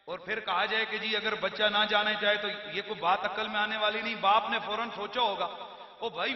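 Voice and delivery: soft reflective aside. Acted. Preacher musing to his listeners, soft and intimate. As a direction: lean in and muse quietly to the crowd.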